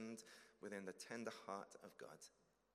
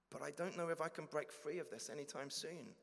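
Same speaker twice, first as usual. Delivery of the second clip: higher, louder pleading believer; anxious confession; 6 semitones higher, 4 dB louder than usual. Acted. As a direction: plead nervously, afraid of rejection.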